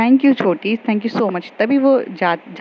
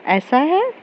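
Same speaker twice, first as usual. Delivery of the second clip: mock surprise; 7 semitones higher, much slower than usual. Teasing question to Vanshika.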